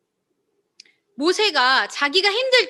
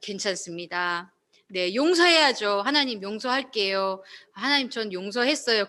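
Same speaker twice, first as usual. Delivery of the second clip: feigned calm; 5 semitones lower, 3 dB quieter than usual. Pretend. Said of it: "그런데 겉으로는".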